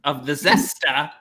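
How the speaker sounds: slow mock Cockney "zesta" with a dropped r; drawn-out Cockney "zesta". The speaker echoes Mark's accent back to him in mock Cockney. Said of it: "he was trying to be like Cockney".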